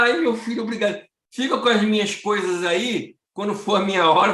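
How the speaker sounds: a hint of a sweet grandma; grateful old lady. Velha agradece ao pastor. (voz de vovó agradecida, um pouco mais alta)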